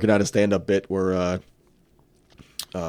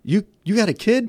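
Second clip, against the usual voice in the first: put-on much higher curious kid; 11 semitones higher than usual. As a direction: ask it like a nosy young gamer. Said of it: "the kid goes".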